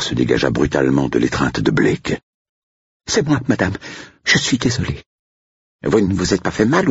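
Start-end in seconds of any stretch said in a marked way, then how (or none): 3.1-6.9 high, contrite cook voice; apologetic cook. Acted. Cook apologising to her mistress, high contrite voice.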